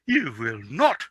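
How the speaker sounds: prince protesting. Acted. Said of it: "cried the young prince".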